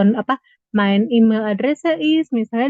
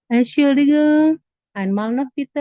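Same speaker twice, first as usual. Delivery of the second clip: model phrase again; 5 semitones higher, 5 dB louder, slower than usual. Shown as a demonstration. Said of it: "Kita bisa ngomongnya gini".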